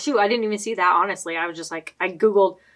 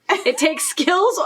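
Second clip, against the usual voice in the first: put-on drawn-out pirate accent, very slow; attempted pirate accent; 3 semitones higher, much slower than usual. Host reading the pirate quiz intro, slow pirate accent attempt. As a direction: slowly try on a pirate accent. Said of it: "I'm just gonna read it".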